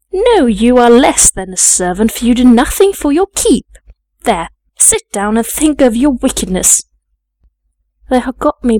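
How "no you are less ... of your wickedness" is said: mildly raised, reproving maid's voice; stern scolding. Acted. Maid tells the girl she is less than a servant, stern scolding. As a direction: put the child in her place.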